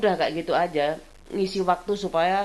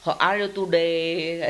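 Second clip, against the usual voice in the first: slow, Javanese-lilting "How are you today?"; medok English; 3 semitones lower, slower than usual. Shown as a demonstration. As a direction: savour the accent, slowly. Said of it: "pelo itu enak".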